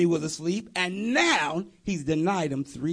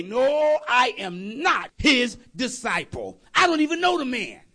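shouted denial; 3 semitones higher than usual. Acted. Peter shouting at the girl he is no disciple. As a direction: shout him down in panic.

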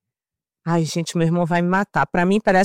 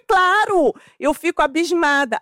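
offended reply; 7 semitones higher than usual. Retold or imitated. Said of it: "eu tava ofendidíssima".

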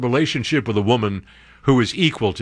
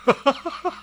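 high laugh; 13 semitones higher, 5 dB quieter than usual. Real, not acted. Laughing at own joke.

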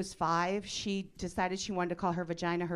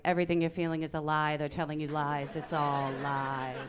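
mock urgent warning; 3 semitones lower than usual. Atheist husband to his Christian daughter, mock urgent warning. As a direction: warn urgently, stretching the final lies.

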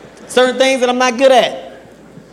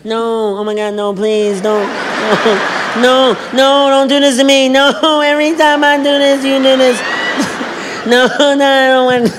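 bad impression; 4 semitones higher, slower than usual. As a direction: ham up a woman begging through tears. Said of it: "This, this is my impression of women breaking down".

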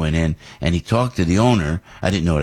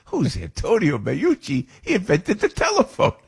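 Joe Montana answering; 11 semitones higher than usual. Retold or imitated. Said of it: "He goes".

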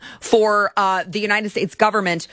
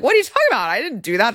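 mock innocent denial; 4 semitones higher, much faster than usual. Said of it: "she was like".

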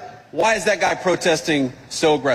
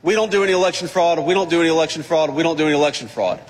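mock protesting mayor; faster than usual. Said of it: "and says".

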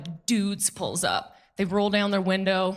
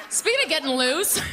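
laughing; 10 semitones higher than usual. Real, not acted. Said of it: "repeats with laugh".

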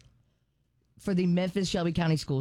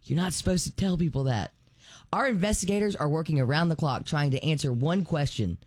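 parody ad voice; 2 semitones lower than usual. Acted. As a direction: read it like a TV ad. Reads parody ad aloud.

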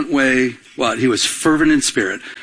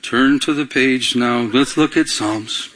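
bored reading; 2 semitones lower, slower than usual. Pretend. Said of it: "How boring would it be".

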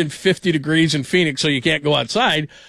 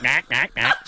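mock Berman duck; slower than usual. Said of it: "So he sounded like a duck".

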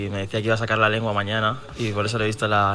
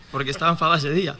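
laughing; 6 semitones higher, faster than usual. Real, not acted. Player laughs answering.

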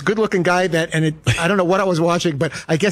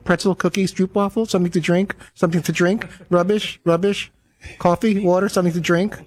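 repetitive attendant. Retold or imitated. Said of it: "things that they have to repeat five thousand times".

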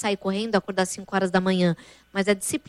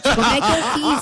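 higher voice breaking into laughter; helpless, amused and high-pitched; laughing embarrassment; 3 semitones higher, 4 dB louder than usual. Real, not acted. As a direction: laugh through an embarrassing confession. Laughing over embarrassing toilet story.

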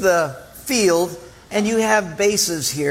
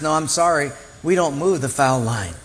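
lower, steady refusal; calm umpire; 4 semitones lower than usual. Retold or imitated. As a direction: settle it like an unmoved official.

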